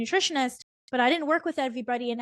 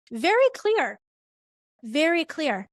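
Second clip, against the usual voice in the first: excited praise; 4 semitones higher, 3 dB louder than usual. Real, not acted. Coach praising a clear example.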